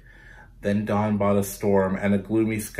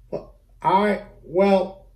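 flustered clerk; 8 semitones higher, 4 dB louder, much slower than usual. Acted. Clerk caught off guard.

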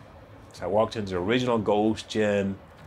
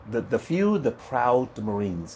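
commercial slogan; slower than usual. Retold or imitated. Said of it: "And that was a commercial".

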